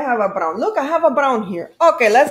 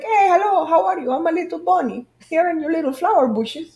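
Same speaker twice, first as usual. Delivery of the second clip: a touch higher, lightly voiced bunny; soft shy stuffed bunny; 4 semitones higher than usual. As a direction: peek out like a shy little bunny. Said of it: "She's just like".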